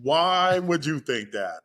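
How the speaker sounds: laughing innocence. Retold or imitated. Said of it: "And I was like".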